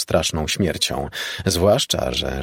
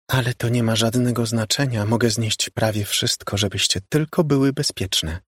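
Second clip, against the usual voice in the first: ghost sister; 4 semitones higher than usual. Acted. Ghost sister continues calmly.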